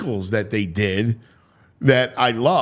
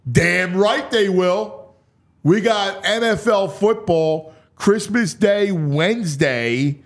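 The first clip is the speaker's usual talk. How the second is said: emphatic hype; 5 semitones higher, slower than usual. Real, not acted. Emphatic hype about Christmas game.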